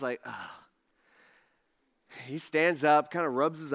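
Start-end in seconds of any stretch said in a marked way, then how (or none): 0.2-0.5 imitated groggy sigh; weary sigh. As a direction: sigh as if just woken. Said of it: "I think he kinda sighs".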